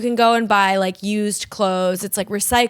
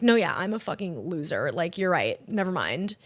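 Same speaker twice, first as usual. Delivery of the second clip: low, soft, defeated agreement; small self-deprecating retreat; humiliated customer; 4 semitones lower, 7 dB quieter than usual. Acted. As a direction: give in quietly, mildly mock-humiliated. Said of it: "really humiliating".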